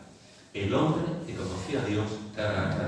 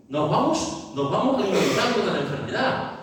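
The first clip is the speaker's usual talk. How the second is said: laughing; 7 semitones higher, 3 dB louder than usual. Real, not acted. Laughs at the habit of complaining.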